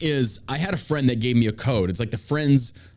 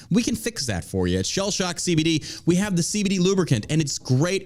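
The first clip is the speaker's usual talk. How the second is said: ad read; 5 semitones higher than usual. Pretend.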